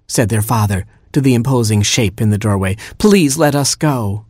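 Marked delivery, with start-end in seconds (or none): 3.0-4.2 slow, raised-pitch plea; beg, stretching the words out; pleading Papa. A narrator's reading. Papa to the shape in the doorway, pleading.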